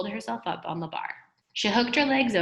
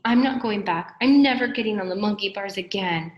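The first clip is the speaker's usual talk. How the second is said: firm; 3 semitones higher, 5 dB louder than usual. Acted. Dee Dee refusing, scared.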